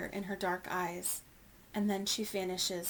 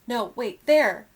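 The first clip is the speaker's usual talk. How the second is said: yelling; 3 semitones higher, 10 dB louder, slower than usual. A narrator's reading. Young elephant correcting herself to rescuers, excited yell. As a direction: burst out much louder on the last word. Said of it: "Ruby yells".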